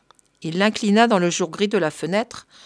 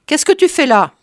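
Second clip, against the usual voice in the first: surprised; 7 semitones higher, 7 dB louder than usual. Acted. Curé surprised at the pot.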